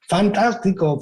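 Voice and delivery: put-on the boy shouting something nice into the cave; child calling out happily. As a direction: call it out with joy.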